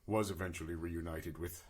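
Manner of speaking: low, measured tale-telling in character; solemn war-orphan adventurer. Acted. Player resumes backstory in character.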